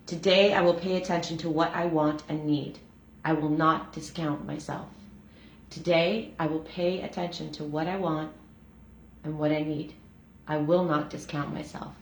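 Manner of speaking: prayer reading. Acted. Host reading the daily prayer to viewers, prayerful.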